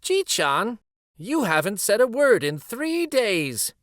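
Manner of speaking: a hint of a fond grandma; grandma Ba-chan. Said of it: "Ba-chan said".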